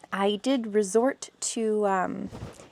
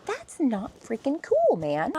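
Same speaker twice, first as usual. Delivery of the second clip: angry; 6 semitones higher, 5 dB louder than usual. Retold or imitated. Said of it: "I was ticked off".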